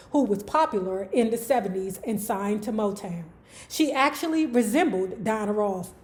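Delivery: measured read-aloud of an article; narrating from the page. Real, not acted. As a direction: read the written passage out evenly. Reads article between own chat.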